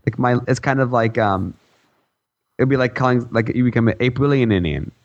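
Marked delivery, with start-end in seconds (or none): 4.0-4.9 "Aprilian Indian" run as one name with a doubled ending; added syllables. Retold or imitated. Podcaster inventing a botched version of co-host's name, mispronounced. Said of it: "like, double I N A at the end".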